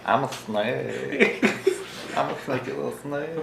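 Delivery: laughing playfully. Real, not acted. Gloats after sneaky move.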